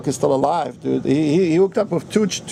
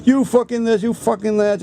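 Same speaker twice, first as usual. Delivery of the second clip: mock swearing; 5 semitones higher than usual. Imitating the wife cursing at the narrator in the bar, mock angry. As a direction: rattle off abuse. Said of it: "started swearing at me".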